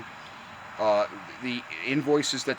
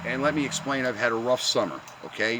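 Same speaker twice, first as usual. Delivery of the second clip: cigarette in mouth. Real, not acted. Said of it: "let me light my cigarette".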